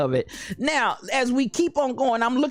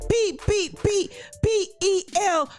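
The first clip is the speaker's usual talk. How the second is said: mock cheer; 8 semitones higher than usual. Mock spelling cheer from stands.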